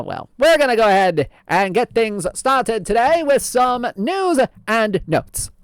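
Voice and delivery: lightly voiced old-time radio host; old-fashioned announcer voice; old-timey voice. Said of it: "I don't know how long we can keep this up".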